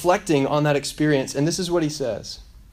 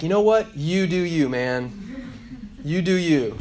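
higher, breezy hands-off parent; mock permissiveness; 4 semitones higher, slower than usual. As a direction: toss it off as an easygoing dad would. Imagined permissive parent brushing off child.

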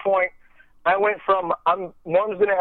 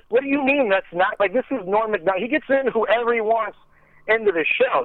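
incredulous handler; 7 semitones higher than usual. Retold or imitated.

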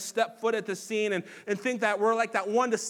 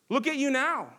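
higher, loud jeer "Look at you now"; mocking shout; 7 semitones higher, 4 dB louder than usual. Preacher as a bystander jeering Jesus on the cross, loud mock. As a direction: spit the jeer at him. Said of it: "shouting and mocking Jesus on the cross".

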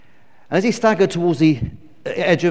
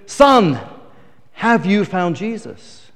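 pastor asking; much slower than usual. Retold or imitated. Pastor asks after first dunking.

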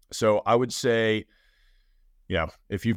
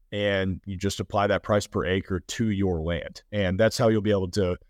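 tired, failing voice; voice giving out. Real, not acted. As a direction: voice wearing thin, pushing through. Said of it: "sorry guys, I'm losing my voice".

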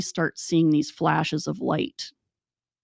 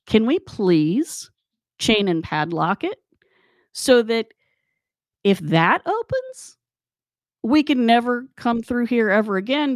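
emphatic pleading; 4 semitones higher than usual. Retold or imitated. Acted plea to padlock the door.

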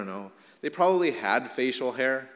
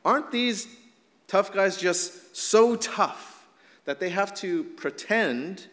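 sarcastic mockery. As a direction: sneer at the so-called tough guys. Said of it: "there's some sarcasm by saying".

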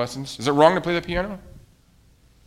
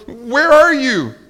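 high, loud, drawn-out call; 11 semitones higher, 10 dB louder, much slower than usual. A narrator's reading. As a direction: call slowly for someone lost. Toad calls for vanished Frog.

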